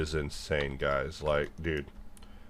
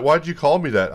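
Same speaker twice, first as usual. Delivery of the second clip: offended shriek; 10 semitones higher, 9 dB louder than usual. Retold or imitated. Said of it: "You'll be like".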